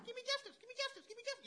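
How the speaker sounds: high, loud desperate plea of the widow; pleading widow. Retold or imitated. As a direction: cry out for justice like a begging widow.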